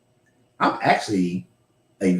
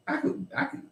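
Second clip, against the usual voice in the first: whispered aside; 9 dB quieter than usual. Real, not acted. Whispers a confession about crying.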